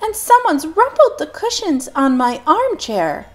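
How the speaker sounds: high, loud mother yell; mother yelling about the cushions. Acted. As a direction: yell it indignantly. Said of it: "yelled Missus Chan".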